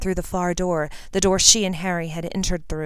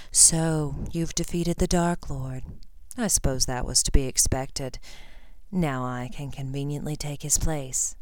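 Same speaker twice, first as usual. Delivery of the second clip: low, slow gloating menace; a hint of cold aristocrat; lightly voiced sneering villain; 3 semitones lower, 5 dB quieter than usual. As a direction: savour the triumph quietly. Voices Lucius Malfoy.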